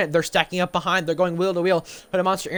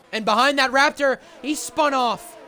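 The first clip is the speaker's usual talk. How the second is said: excited; 4 semitones higher than usual. Real, not acted. Crash call in commentary.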